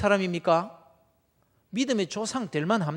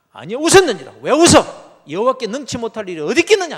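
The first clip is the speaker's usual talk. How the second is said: loud, higher thundering scold; God thundering at Sarah; 4 semitones higher, 15 dB louder than usual. Acted. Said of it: "하면서 야단을 칩니다". (야단치는 하나님의 큰 호통)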